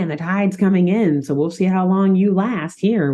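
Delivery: lightly creepy ghost taunt; a hint of a menacing ghost. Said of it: "in his creepy ghost voice".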